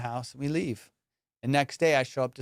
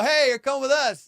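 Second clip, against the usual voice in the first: raised, high-pitched order; commanding call; 10 semitones higher, 5 dB louder than usual. Retold or imitated. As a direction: call out to seize someone. Acted grab at the door.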